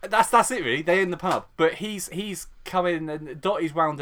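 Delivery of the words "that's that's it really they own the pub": ordinary delivery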